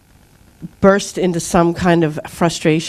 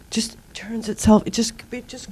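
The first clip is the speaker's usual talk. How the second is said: whispered; 2 semitones higher, 5 dB quieter than usual. Real, not acted. Marvelling at embryo growth.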